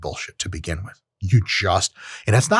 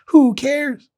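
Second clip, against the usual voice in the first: much higher, punchy repeat; emphatic; 13 semitones higher than usual. Real, not acted. Host dismissing the hierarchy to listeners, much higher and emphatic. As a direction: fling it out dismissively. Repeats rhetorical line louder.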